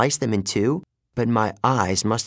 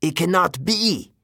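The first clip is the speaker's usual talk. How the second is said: disbelieving cry; 6 semitones higher than usual. Acted. Villain reacts in shock.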